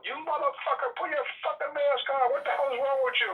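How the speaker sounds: high, retold yelling at strangers; mock yelling. Date yelling at maskless people in the park, mock yell. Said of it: "she's yelling at people".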